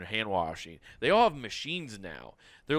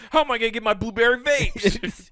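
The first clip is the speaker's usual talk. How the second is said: whiny Carter; 9 semitones higher, 6 dB louder than usual. Pretend. Voicing Carter complaining.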